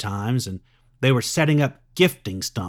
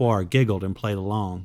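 ordinary delivery

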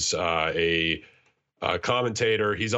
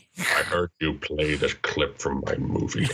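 put-on Scottish accent, deep, slow and drawn out; 5 semitones lower than usual. Doing a quick impression after naming the actor: Sean Connery impression. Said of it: "that's the best Sean Connery I can do".

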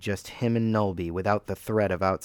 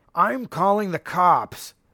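put-on loud drunk man bellowing, pitched way up; 11 semitones higher, 5 dB louder than usual. Reading a story where a voice shouts from a kitchen window, bellowing drunken man. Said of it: "the voice bellowed, distinctly male and likely agitated by drink".

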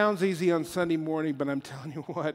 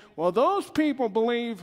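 nervous voice, higher pitch; 7 semitones higher, 4 dB louder than usual. Talking about how others' beliefs get dismissed, slipping into a Barney Fife voice. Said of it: "I don't know why I got a Barney Fife voice".

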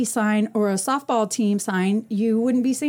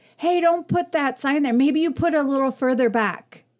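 light, mock yelling, calling out in a woman's voice; 3 semitones higher than usual. Retelling how a woman yelled from across the street: imitating a woman yelling. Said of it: "this lady starts yelling at me from across the street".

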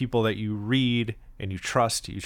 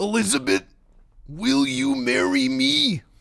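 very high, rough, pushed-up wrestler voice; 4 dB louder than usual. Trading impressions, the speaker does a Macho Man impression. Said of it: "That's my Macho Man impression".

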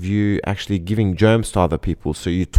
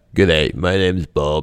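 heavily exaggerated, overdone Australian accent; 4 semitones lower than usual. Playing Bob in a role-play with a partner playing Alice: overdone Australian Bob voice. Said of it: "That might be overkill on the Bob voice".

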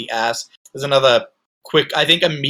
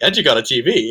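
put-on enthusiastic guard voice; 2 semitones lower than usual. Quoting a favorite line from the guard showing a trailer: enthusiastic Lorenzo impression. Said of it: "Lorenzo is very enthusiastic".

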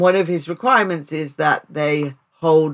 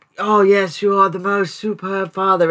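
put-on gushing, flattering tone, higher; 4 semitones higher than usual. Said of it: "she does the same thing".

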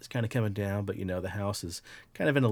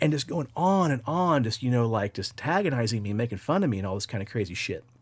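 ordinary talk

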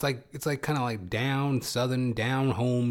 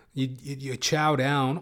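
normal talking voice

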